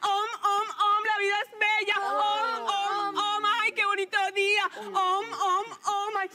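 lightly sung-up mock guru chant, drawn-out oms; mocking meditation voice. Mocking her coworker's meditation talk, lightly mock-serene. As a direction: parody her calm yoga talk. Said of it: "sus comentarios estúpidos de".

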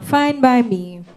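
loud, slow, drawn-out retort; angry dismissal. Acted. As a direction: end it with heavy irritation. Quarrel ends rehearsal.

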